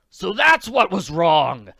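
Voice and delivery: startled. Acted. Startled realization.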